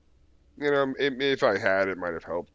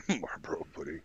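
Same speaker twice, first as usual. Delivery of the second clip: laughing; 3 semitones higher, 6 dB quieter than usual. Real, not acted. Laughing repeat of friend's joke.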